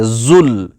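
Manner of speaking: زل drawn out with a firm z; hard z. Shown as a demonstration. Teacher tells students to read زل firmly. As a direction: press the z in زل, tongue kept in. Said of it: "یہ سختی سے آپ پڑھیں".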